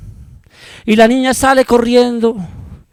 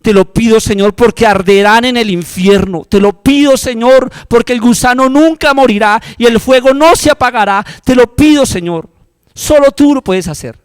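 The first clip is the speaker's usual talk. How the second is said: louder, higher pleading; impassioned intercession; fervent prayer; 4 semitones higher, 4 dB louder than usual. Shown as a demonstration. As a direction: cry out to God with urgency. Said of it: "arrodíllate".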